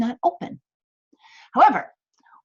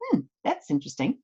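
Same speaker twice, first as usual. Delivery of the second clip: calm curious hmm; 5 semitones lower, 5 dB quieter than usual. Shown as a demonstration.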